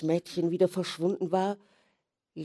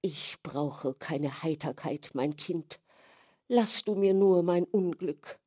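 solemn. Acted. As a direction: speak as a noble sufferer. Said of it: "sagte feierlich".

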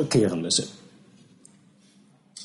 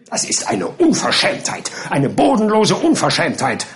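raging captain; 4 semitones higher than usual. Acted. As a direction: fume at the insult. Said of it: "raste Captain Boldwick". (rasend vor Empörung)

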